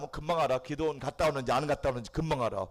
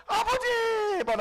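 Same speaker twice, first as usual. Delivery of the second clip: crying out to Father; 9 dB louder, much slower than usual. Acted. Preacher voices crying prayer to God.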